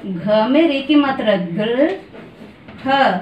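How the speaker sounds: drawn out, syllable by syllable; slow sounding out. Shown as a demonstration. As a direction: spell it out slowly for the children. Teacher sounding out for children. (धीरे-धीरे खींचकर उच्चारण)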